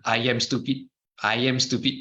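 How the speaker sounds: quick repeated run of "I am stupid". Shown as a demonstration. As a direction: rattle off "I am stupid" twice in a row. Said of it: "Say it faster".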